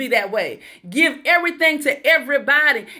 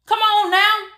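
high preacher call; 7 semitones higher than usual. Acted.

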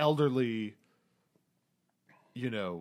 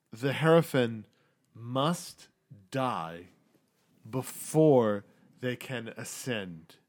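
slow solemn prophecy; 3 dB louder, slower than usual. Acted. GM voices Elise's prophecy.

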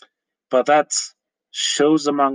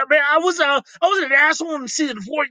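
Morty voice; 14 semitones higher, faster than usual. Pretend. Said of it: "my interpretation of Rick and Morty arguing".

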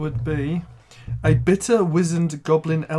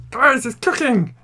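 excited; 9 semitones higher, 5 dB louder, slower than usual. Real, not acted. Celebrating the meal cooking.

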